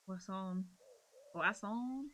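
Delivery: a light Cornish "What's on?" with "on" stressed, rising at the end; Cornish greeting. Shown as a demonstration. Streamer teaching chat the Cornish hello. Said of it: "That's how you say, "Hello, how are you?".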